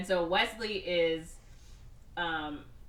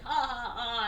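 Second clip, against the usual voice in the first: mock goon laughter; 5 semitones higher than usual.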